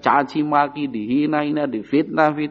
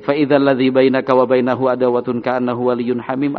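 measured melodic Quran chant; Quran recitation; 2 semitones lower than usual. Acted. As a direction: recite it like tilawah, drawing out the vowels.

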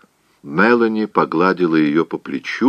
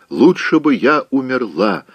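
a touch of tearful despair, higher; mild sobbing; 7 semitones higher than usual. Acted. Scarlett into her pillow, lightly sobbing. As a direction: wail it as a spoiled girl sobbing. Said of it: "самозабвенно всхлипывала она".

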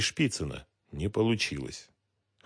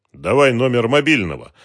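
raised, loud demand; 5 semitones higher, 10 dB louder than usual. A narrator's reading. Detective demanding a number from the captive, loud insistence. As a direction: press him for it firmly. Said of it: "потребовал Дронго".

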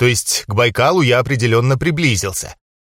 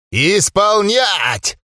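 growl with a voice crack; 6 semitones higher, much slower than usual. A narrator's reading. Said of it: "попытался рыкнуть усатый, но в конце подпустил голосом петуха".

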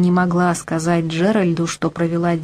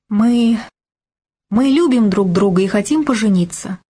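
выпалила; 3 semitones higher than usual. Acted. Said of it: "выпалила Флюретта".

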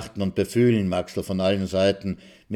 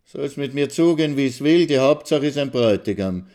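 sighing little Gusti; 5 semitones higher, 4 dB louder than usual. A narrator's reading. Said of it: "seufzt die kleine Gusti".

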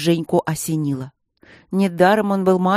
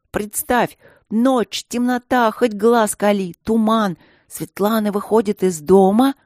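dramatic storytelling; 4 semitones higher, 4 dB louder, slower than usual. Acted. Zhenka spins a spooky scene.

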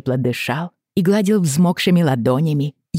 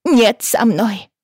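put-on crying child; 9 semitones higher, 4 dB louder, slower than usual.

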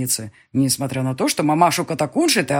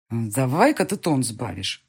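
forced calm; 4 semitones lower, slower than usual. Acted. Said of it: "казалось бы, спокойно".

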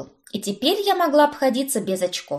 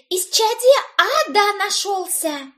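excited shout; 11 semitones higher than usual. A narrator's reading. Cousin shouting the news.

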